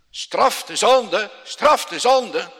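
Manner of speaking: loud, slow, booming cry; a slow thundering shout for punishment. Acted. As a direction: shout the demand to heaven. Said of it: "wat roept hij dan".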